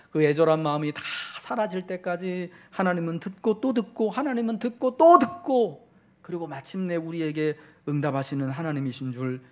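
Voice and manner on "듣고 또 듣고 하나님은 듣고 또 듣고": rising higher on each 듣고 또 듣고; building emphasis. Acted. Preacher repeats for emphasis.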